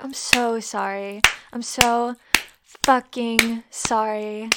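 slow, loud, drawn-out fake apology; mock apology. Dominant pretending regret to partner, mock apology. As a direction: lean hard on the insincere sorry.

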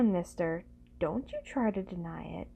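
ordinary delivery

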